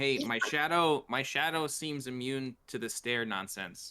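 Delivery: loud, high-pitched yell. Playing a character yelling out the window to Elle: yelling out a window. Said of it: "I yell out the window".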